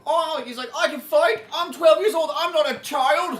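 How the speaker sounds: put-on high, loud bratty boy voice; squeaky kid insisting he can fight; mock whiny kid. Annoying kid character in the game, high shrill whine.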